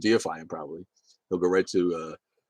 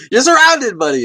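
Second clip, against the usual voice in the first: high, loud mock warning; mock alarmed shout; 16 dB louder than usual. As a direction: yell it like a horror-movie warning. Mocking warning to friend in Texas.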